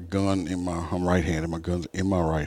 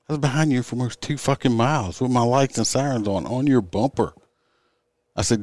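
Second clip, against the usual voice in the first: retold scolding; 4 semitones higher than usual. Officer scolding the driver who wouldn't stop, exasperated. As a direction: scold her like she's a fool.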